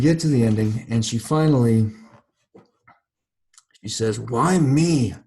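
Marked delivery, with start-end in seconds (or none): 4.2-5.1 rumbled. A narrator's reading. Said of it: "she rumbled".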